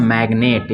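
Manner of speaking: "मैग्नेट" with the g sounded before n; don't silence the g in "मैग्नेट"; g pronounced. Shown as a demonstration. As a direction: say "मैग्नेट" with an audible hard g. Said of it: "इसमें जी silent नहीं रहेगा".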